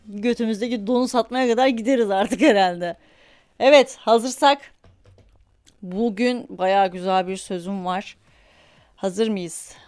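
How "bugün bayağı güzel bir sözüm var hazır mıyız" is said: hushed whisper easing into calm. Real, not acted. Host whispers to listeners before meditation, hushed. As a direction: breathe the words softly.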